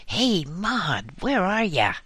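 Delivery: calling out. A narrator's reading. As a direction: holler for her friend. Calling across gardens again.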